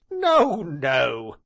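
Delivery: high, loud laughing protest; laughing cry. Acted. Tall gentleman laughing at the wink question. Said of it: "cried he, laughing".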